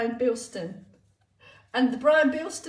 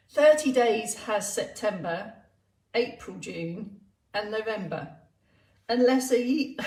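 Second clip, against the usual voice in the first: comic rhyme recital. Acted. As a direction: recite it line by line, spacing out the phrases.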